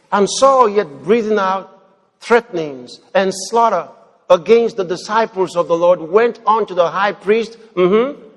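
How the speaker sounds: loud, declaiming Bible reading; scripture reading. Acted. Preacher reading Acts chapter nine to the congregation, loud declaiming. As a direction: read the passage out to the church.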